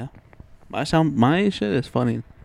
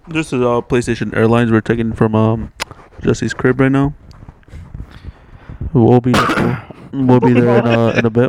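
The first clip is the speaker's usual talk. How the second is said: airline pilot over the intercom; pilot announcement; 4 dB louder than usual. Pretend. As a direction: play the captain welcoming passengers. Plays pilot, PlayStation Airlines.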